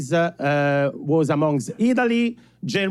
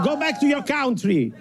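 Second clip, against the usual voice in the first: higher-pitched mock heckle; mock heckler; 6 semitones higher than usual. Joining in against the foreigners, mock heckler shout. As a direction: call it out like a heckler.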